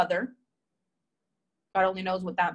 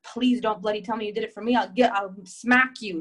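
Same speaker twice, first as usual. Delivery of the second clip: British grandma, calming; 5 dB louder than usual. Retold or imitated. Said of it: "My grandma was livid".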